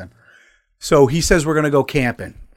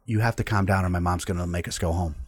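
calming; 4 semitones lower than usual. Retold or imitated. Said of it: "had to calm me down".

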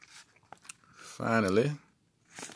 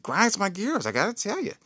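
mock exasperation; 11 semitones higher than usual. Husband complaining about dishes.

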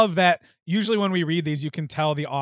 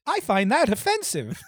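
mock offense; 6 semitones higher than usual. Mock-offended Harry reply.

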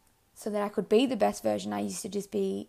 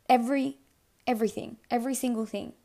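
"Every" punched louder, then "everything", "every single thing" set apart; emphatic stress; 2 semitones higher, 3 dB louder, faster than usual. Real, not acted. Telling listeners everything is connected, emphatically. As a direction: hammer "Every" and break between the repeats. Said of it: "I can't even emphasize that enough".

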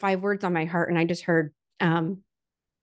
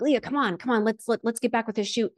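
impatient photographer; 4 semitones higher than usual. Retold or imitated. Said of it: "snapping his fingers".

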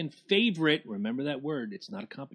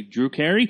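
"Drew Carey" louder, as an unsure question; mock questioning; 6 dB louder than usual. Host teasing co-host's introduction, "Drew Carey" as a mock question. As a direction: imitate doubt about your own name on "Drew Carey". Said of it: "You said that like it's a question".

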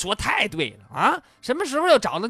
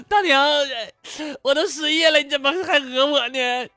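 high-pitched, hammed-up sobbing plea; mock bawling; 7 semitones higher, 3 dB louder than usual. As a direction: bawl comically at an old lady. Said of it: "嚎啕大哭". (夸张地嚎啕大哭)

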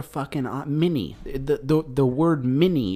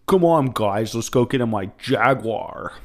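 mock British accent; 4 dB louder than usual. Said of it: "Top Gear guys making fun of us".

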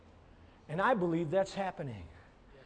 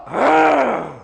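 short growl like a guard dog; mock dog growl; 7 semitones higher, 15 dB louder than usual. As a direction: bark out a warning growl. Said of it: "become like that dog".

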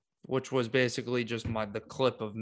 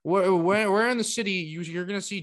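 exasperated shout; 8 semitones higher, 7 dB louder than usual. Real, not acted. Ranting about the Bills argument.

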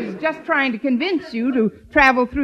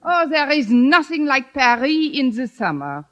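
put-on French accent. Traveller praising Paris in a hammed-up French accent. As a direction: play a hammy Frenchman. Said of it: "trying to represent France".

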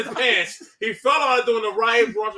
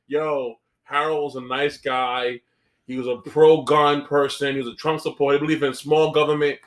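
mock eulogy; 6 semitones lower than usual. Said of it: "make eulogy ... be like".

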